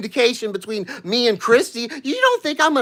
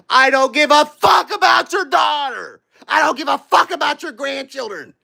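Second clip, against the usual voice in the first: angry shout; 5 semitones higher than usual. Real, not acted. Threatening the woman who trolled him, furious shout. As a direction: shout it right at her.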